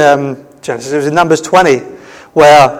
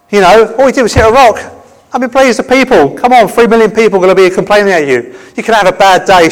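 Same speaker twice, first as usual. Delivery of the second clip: raised, indignant appeal on another's behalf; pleading protest; 4 semitones higher than usual. Acted. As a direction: argue the case in mild exasperation. Pleads Moses's case with God.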